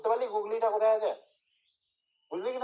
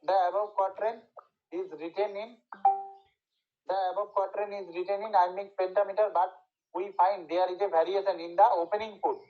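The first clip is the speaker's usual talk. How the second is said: slow, measured classroom dictation; teacher dictating word by word; much slower than usual. Shown as a demonstration. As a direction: read it out slowly for students to write down.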